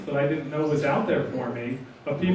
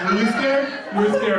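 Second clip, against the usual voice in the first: teasing; 5 semitones higher, 4 dB louder than usual. Retold or imitated. Teasing scared atheists.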